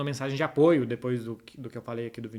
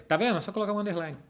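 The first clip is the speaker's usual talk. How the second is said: much higher, playful told-you-so; teasing told-you-so; 7 semitones higher, faster than usual. Real, not acted. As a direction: tease the viewers. Teasing viewers about usernames. (provocação brincalhona, bem mais aguda)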